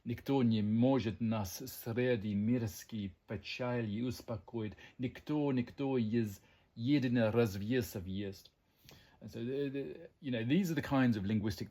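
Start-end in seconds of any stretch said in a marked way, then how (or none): 0.1-8.5 slow, measured Russian verse; poetic recitation. Acted. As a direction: recite it as solemn drama, drawn out. Recites a Pushkin quote in Russian.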